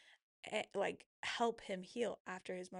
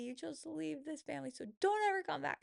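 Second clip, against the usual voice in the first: retold rising anger; 6 semitones higher, faster than usual. To her husband who left, building to a mock yell.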